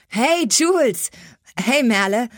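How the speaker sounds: loud, high call to two friends. Acted. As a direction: hail them from across the yard. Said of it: "schallte schon wieder ein Ruf".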